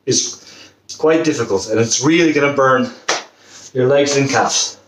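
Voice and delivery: panting between words after jumping; out of breath, pushing words out. Real, not acted. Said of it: "you can see I'm already out of breath".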